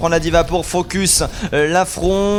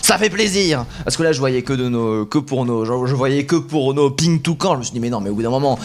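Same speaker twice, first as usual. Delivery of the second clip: esports caster. Real, not acted. Live play-by-play casting.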